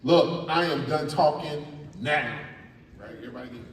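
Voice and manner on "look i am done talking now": dramatic ending. Shown as a demonstration. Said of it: "There's a dramatic ending".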